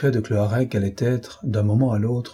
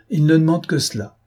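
playful, higher-pitched mock amazement; amused gallantry; 7 semitones higher, 3 dB louder than usual. A narrator's reading. Shipowner teasing the gunner before the ladies, amused gallantry. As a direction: make light of it for the ladies. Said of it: "reprit en riant l'armateur".

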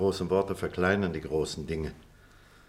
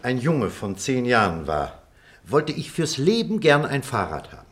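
measured storyteller with dramatic pauses; story narration; 3 dB louder than usual. Acted. Telling listeners of a boyhood bicycle raffle, story narration. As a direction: tell it step by step, savouring the suspense.

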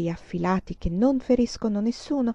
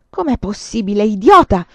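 stage whisper; 9 dB louder than usual. A narrator's reading. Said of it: "sibilò".

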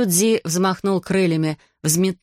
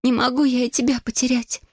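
put-on high, sorrowful girl's voice; grieving girl; 6 semitones higher than usual. Girl afraid to lose her dragon friend, high and sad. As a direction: mourn him as a young girl.

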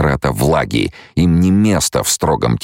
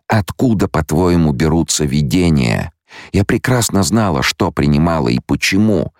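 higher-pitched female character, indignant; irritated young woman; 5 semitones higher than usual. Acted. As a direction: challenge him in a raised pitch. (возмущённая героиня, высоким голосом)

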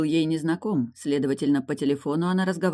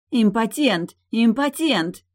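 loud, higher jeering chant; shouting taunt; 7 semitones higher, 4 dB louder, slower than usual. Acted. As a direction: join in the taunt. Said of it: "тут же подхватила Лой". (громко подхватывает дразнилку)

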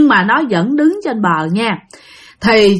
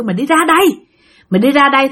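ghost calling him out; 3 semitones higher, much faster than usual. Retold or imitated. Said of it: "nó kêu".

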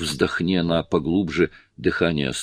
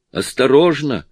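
higher urgent warning cry; warning shout; 6 semitones higher, 3 dB louder than usual. A narrator's reading. Petty warning Annie on the bench, shouting. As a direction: call out the danger sharply. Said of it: "крикнула Петти".

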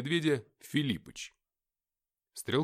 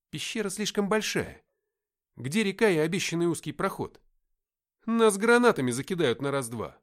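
raised, loud worried complaint; alarmed protest; 4 semitones higher, 6 dB louder than usual. Acted. Fighter fears grenades in the open cave, alarmed protest. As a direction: protest urgently, building in volume.

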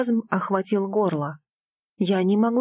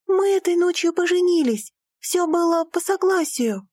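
insistent; 10 semitones higher than usual. Acted. Daughter to father, insisting. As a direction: plead your case.

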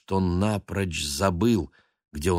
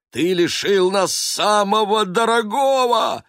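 exclaimed; 14 semitones higher, 7 dB louder than usual. Acted. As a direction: shout it in outrage. Council outraged.

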